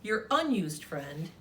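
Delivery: lightly voiced sassy pink crayon; a touch of a miffed crayon scolding the kid; mildly sassy crayon letter.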